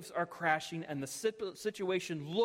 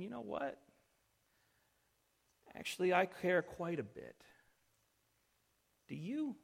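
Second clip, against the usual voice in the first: tender rebuke; 4 dB quieter than usual. Acted. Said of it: "it's as if he's saying".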